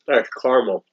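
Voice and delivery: talking with a mouthful of candy; chewing while talking; mouth full. Real, not acted. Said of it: "Don't talk with your mouth full".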